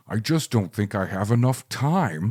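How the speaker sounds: lightly voiced worried figure; a hint of a character voice; Santa. Santa fretting about time left, lightly put-on voice. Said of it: "And then Santa's like".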